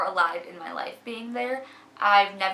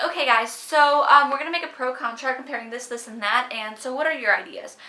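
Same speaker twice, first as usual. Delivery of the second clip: louder, higher take-charge voice; confident leader; 4 semitones higher, 7 dB louder than usual. Retold or imitated. At the whiteboard leading her group, louder confident address. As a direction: own the room at the whiteboard.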